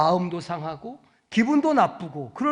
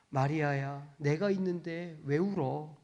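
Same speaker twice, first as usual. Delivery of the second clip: 마리아야 said softly and lower, like a gentle call; tender call, softer; 6 semitones lower, 10 dB quieter than usual. Acted. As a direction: call her name softly, full of love. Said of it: "이렇게 말씀하시는 거죠". (부드럽고 낮게 부르는 "마리아야")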